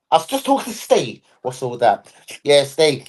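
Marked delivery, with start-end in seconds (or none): 0.1-1.2 higher mimicking voice; imitated casual speaker. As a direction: mimic the name-dropper, pitched up. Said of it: "Anyone that goes".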